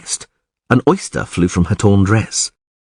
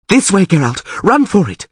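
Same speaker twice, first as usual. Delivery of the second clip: high, pleading call to run; urgent shout; 10 semitones higher than usual. A narrator's reading. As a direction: yell at him to get out now. Yennefer urging Geralt to flee.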